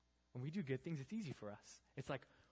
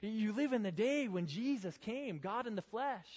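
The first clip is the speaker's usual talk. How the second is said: high, loud, urgent rebuke; paraphrasing Paul's rebuke; 7 semitones higher, 7 dB louder than usual. Retold or imitated. Pastor voicing Paul scolding the Galatians, raised and pressing. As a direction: pile the questions on, louder and higher. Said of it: "Let me paraphrase some of them for you".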